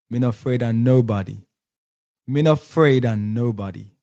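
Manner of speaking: host getting the Jamaican patois right on the next try; Jamaican patois accent. Shown as a demonstration. Host nailing the Prime Minister's line in Jamaican patois. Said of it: "That's better".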